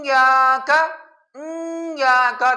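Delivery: یا کا with the start pushed through the nose; nasal hamza. Shown as a demonstration. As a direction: nasalize the opening of یا کا. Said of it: "آواز ناک میں لے کے جانا".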